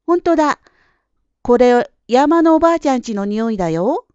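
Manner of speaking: put-on loud, high, excited child; delighted discovery. A narrator's reading. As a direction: burst out with a happy discovery. Girl recognises grandmother's house smell. (うれしい発見に声を弾ませて)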